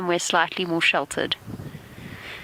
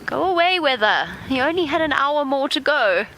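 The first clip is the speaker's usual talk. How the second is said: higher, playful plea to the rain; mock scolding the weather; 7 semitones higher than usual. Real, not acted. Guide scolds the rain for ruining the afternoon, playfully. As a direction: shoo the storm away, half joking.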